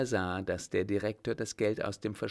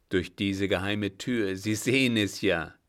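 put-on an old captain's voice, louder and firmer than the narration; 5 dB louder than usual. The old captain to the startled director, louder and firm. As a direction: speak as the old master calming a frightened man.

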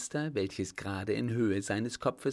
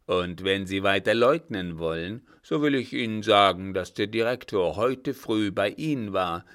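louder, relentless confrontation; pressing accusation; 8 dB louder than usual. A narrator's reading. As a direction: confront her loudly with the proof. Old man presses accusation. (laut und anklagend)

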